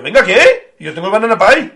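loud, laughing protest over cake; laughing indignant retort. Retold or imitated. To his rushing friend, a loud laughing protest. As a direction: laugh while refusing to leave.

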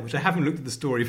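ordinary delivery

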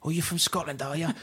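imitating an English guy teasing; English accent impression. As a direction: put on a cheeky London voice. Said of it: "when somebody goes like to you".

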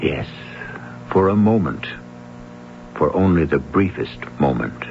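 eerie radio-theatre intro read; radio mystery host narration. A narrator's reading. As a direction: draw the listener into the dark like a late-night host. Host's poetic opening narration.

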